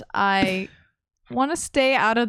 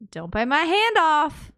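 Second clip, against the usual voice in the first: cautious; 7 semitones higher, slower than usual. Acted. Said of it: "and I say".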